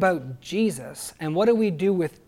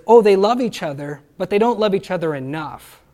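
louder, lightly mocking judge of the church; mock critic of Christians; 2 semitones higher, 7 dB louder than usual. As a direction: play a sniffy critic, not fully. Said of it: "the Christians and says".

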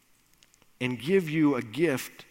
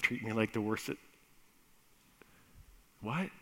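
startled son; 4 semitones lower, 6 dB quieter, faster than usual. Acted. Son shocked at the news.

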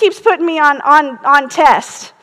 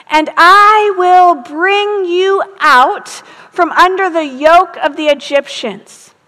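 slow, solemn Bible reading; scripture reading; slower than usual. Acted. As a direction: read the verses slowly and weightily.

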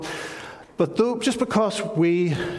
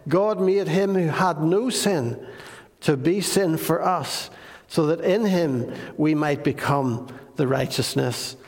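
measured, solemn Bible reading; scripture reading. Acted.

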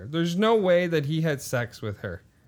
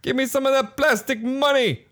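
high put-on voice; hammed-up mock character; 9 semitones higher, 3 dB louder than usual. Customer asking for the plastic money, hammed-up high voice. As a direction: demand it in a cartoonishly raised voice. Joins the play-money bit.

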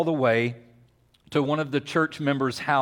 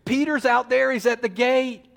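Rhoda; 8 semitones higher than usual. Acted. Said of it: "and she says".

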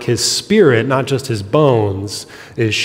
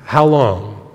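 pleading lament; slower than usual. Acted. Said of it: "is conveying when it says".

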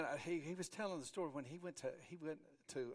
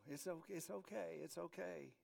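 soft, hushed reassurance; self-reassuring; 8 dB quieter than usual. Acted. Churchgoers convincing themselves all is fine, softly reassuring. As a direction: soothe yourself quietly. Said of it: "kinda convince ourselves".

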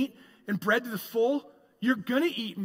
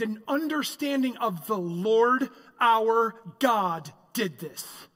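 preaching at full force; 3 semitones higher than usual. Acted.

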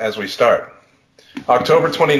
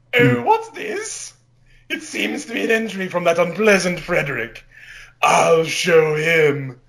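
sly villain; 2 semitones higher than usual. Acted. Alter ego finding his rival's diary entry, slow and sly. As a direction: drawl it out like a scheming cartoon villain. Napoleon persona finds the entry.

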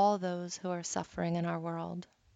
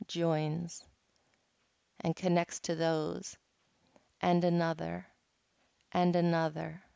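guided meditation. Acted. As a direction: guide them gently through each breath. Leads a guided cloud meditation.

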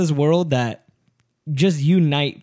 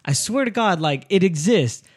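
higher-pitched retold insistence; insistent pleading; 5 semitones higher than usual. Man swearing to a doubting woman, insistent. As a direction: swear it up high, pleading to be believed. Acting out his pleading to her.

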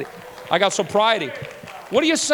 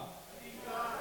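whispered prayer of need; hushed plea; 21 dB quieter than usual. Shown as a demonstration. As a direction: breathe it out unvoiced. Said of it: "Can you say that?".

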